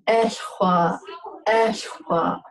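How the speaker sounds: Eshwa with an airy, rounded W. Shown as a demonstration. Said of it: "which is that airy, rounded out sound".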